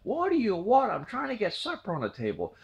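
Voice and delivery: irritated mom calling back through the screen door; upset mom. Retold or imitated. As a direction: snap it, then mutter the excuse. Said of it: "She's, she's upset".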